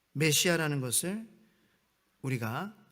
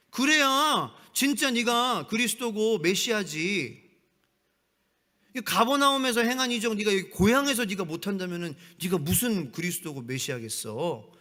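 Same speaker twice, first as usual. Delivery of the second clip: sarcastic taunt; 4 semitones higher, 4 dB louder than usual. Retold or imitated. Preacher voicing hometown crowd mocking Jesus, loud sarcastic taunt. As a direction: drag it out to taunt a supposed messiah. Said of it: "이렇게 비꼬는 거예요".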